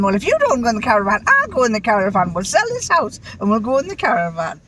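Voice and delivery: mock threat. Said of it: "I keep threatening him".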